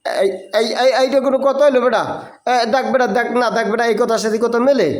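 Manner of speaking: high, excited scolding banter; excited teasing. Real, not acted. Teacher teasing the student over a bird in the room, excited.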